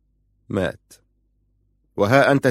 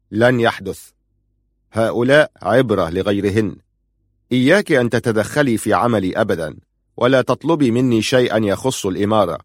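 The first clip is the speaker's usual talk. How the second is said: firm. Acted. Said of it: "قال في حسم".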